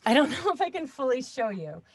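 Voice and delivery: speaking from a cramped closet. Real, not acted. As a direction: talk squeezed into a tiny booth. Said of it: "it's really tight in here".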